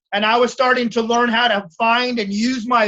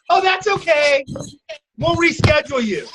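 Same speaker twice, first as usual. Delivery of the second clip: mock accommodating; 4 semitones higher than usual. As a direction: mimic someone letting it slide, pitched up. Mimics over-accommodating stylists on no-shows.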